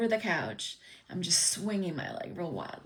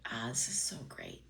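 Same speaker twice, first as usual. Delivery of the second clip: softly whispered thrill over the book; secret delight; 6 semitones lower, 6 dB quieter than usual. Retold or imitated. Kid alone in his room, whispering with delight. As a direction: hush it like hiding a treasure.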